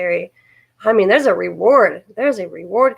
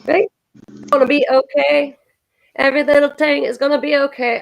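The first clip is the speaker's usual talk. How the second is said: lightly Jamaican lilt, sing-song; hint of Jamaican accent; 3 semitones higher than usual. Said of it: "get my Jamaican on".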